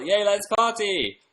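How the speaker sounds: high, loud, stretched-out cheer; slow, drawn-out excited hooray; party cheer. Real, not acted. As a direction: whoop it up for the party. Celebrating a viewer getting tickets.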